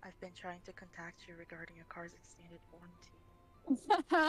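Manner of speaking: muffled voice behind hand; hand over mouth. Pretend. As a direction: talk into your cupped hand. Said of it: "speaking into his hand".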